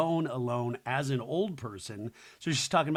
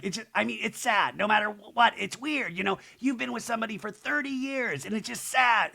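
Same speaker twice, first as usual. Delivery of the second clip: imitating sad Kyle; 7 semitones higher than usual. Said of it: "And she's like".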